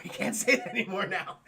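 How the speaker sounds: voiced, amused, through a laugh; laughing aside. Real, not acted. Streamer repeating the warning to chat about a slur, laughing.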